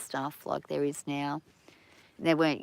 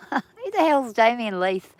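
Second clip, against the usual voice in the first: laughing, slowed and raised in disbelief; laughing question; 5 semitones higher, 6 dB louder, slower than usual. Real, not acted. Recalling cricketers, she laughs at her own mix-up, laughing. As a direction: laugh through the words, baffled at yourself.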